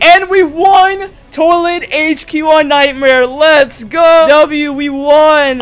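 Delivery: hyped gamer celebration; triumphant. Real, not acted. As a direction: cheer the win, stretching the last words. Announces the win.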